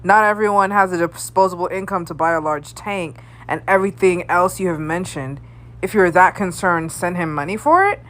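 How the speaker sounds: lightly acted reasonable commenter; voice of reason. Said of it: "being the voice of reason".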